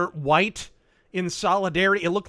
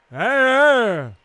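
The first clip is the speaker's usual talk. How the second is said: loud high cheer; excited; 6 semitones higher, 7 dB louder than usual. Real, not acted. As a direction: hype him up. Cheering the entrance.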